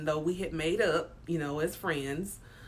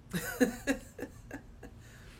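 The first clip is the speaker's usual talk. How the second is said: breathy laugh; 7 semitones higher than usual. Real, not acted. Laughs at herself after the cussing.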